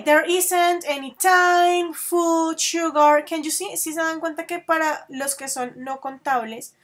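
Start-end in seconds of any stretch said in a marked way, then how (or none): 0.0-3.2 slow model sentence. Shown as a demonstration. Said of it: "You can say".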